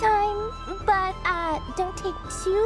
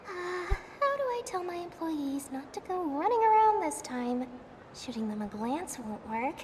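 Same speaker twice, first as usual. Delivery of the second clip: softer, worried inner thoughts; anxious muttering; 6 dB quieter than usual. Acted. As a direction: mutter it nervously to yourself. Anxious inner thoughts, dropping quiet.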